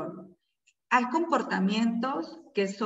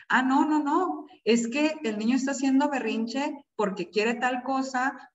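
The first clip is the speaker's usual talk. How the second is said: mother flustered, answering the security guard; flustered protest; 5 semitones higher than usual. Retold or imitated. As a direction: defend yourself to the guard, rattled.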